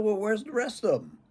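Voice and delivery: stern dad demand. Retold or imitated. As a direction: put on dad pressing for the truth. Retold father demanding answer.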